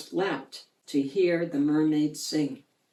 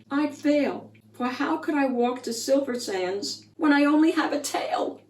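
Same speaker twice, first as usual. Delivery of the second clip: sighing mermaid; 7 semitones higher than usual. A narrator's reading. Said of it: "the mermaid sighed".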